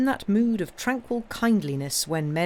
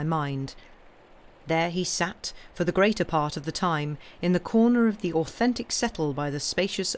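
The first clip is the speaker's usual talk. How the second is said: story narration. Acted. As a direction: settle in and read the tale aloud. Starts reading the ghost story.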